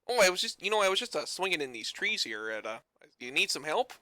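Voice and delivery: put-on a lightly done Newfoundland accent for a friendly ape; Newfie accent. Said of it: "the ape speaks with a thick, uh, Newfie accent".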